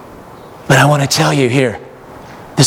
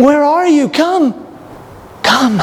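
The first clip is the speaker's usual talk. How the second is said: tender calling voice of God; 14 semitones higher, slower than usual. Acted. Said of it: "He's saying".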